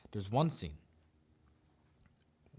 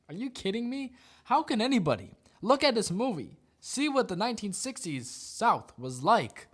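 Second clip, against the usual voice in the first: incredulous rant; 6 semitones higher, 4 dB louder than usual. Real, not acted. Ranting at the article.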